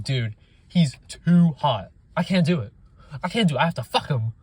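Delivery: hammed-up helpless lust; swooning ghost. Mocking the female ghost who can't resist Ryan, swooning. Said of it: "She's like".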